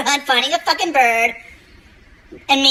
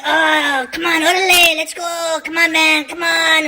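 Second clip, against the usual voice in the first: put-on Mexican accent; 7 semitones higher than usual. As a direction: urge him on in a Mexican accent. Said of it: "And he goes".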